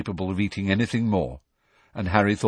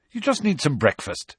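bracing; 6 semitones higher than usual. A narrator's reading. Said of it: "Harry said bracingly".

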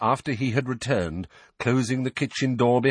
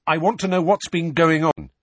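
raised, louder and determined; insistent demand; 10 semitones higher, 7 dB louder than usual. A narrator's reading. Boy demanding to be told what is happening, insistent. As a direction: demand answers with a higher, firmer voice. Harry demands answers in an argument.

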